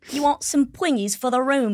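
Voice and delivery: lightly voiced British chimney sweep; a hint of cheeky chimney-sweep accent. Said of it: "That was a chimney sweep".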